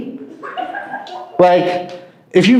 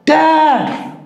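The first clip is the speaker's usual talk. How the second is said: put-on girl screaming; 9 semitones higher than usual. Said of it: "little girl screaming".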